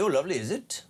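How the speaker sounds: light put-on Welsh accent. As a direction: lilt it like a Welsh caller. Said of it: "That's my Welsh accent this morning".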